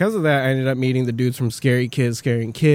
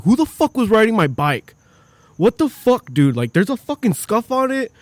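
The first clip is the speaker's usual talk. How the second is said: mock angry yell; 9 semitones higher, 3 dB louder than usual. Singer angrily retold, raised voice.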